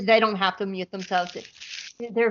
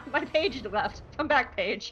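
slow words through laughter; real laughing fluster; giggling; 5 dB quieter, slower than usual. Real, not acted. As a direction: speak while helplessly giggling. Laughing, lost her page.

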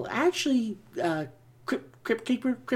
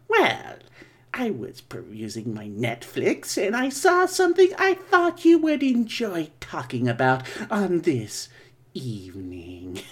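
Crypt Keeper voice; 3 semitones lower than usual. Acted. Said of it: "Crypt Keeper here".

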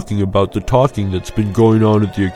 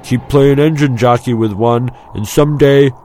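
spirited, mild warning; cautioning friend; 3 semitones higher, 4 dB louder than usual. A narrator's reading. Friend warning Luke about the Skyhoppers, cautioning. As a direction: warn a reckless mate with some push. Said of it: "his friend cautioned".

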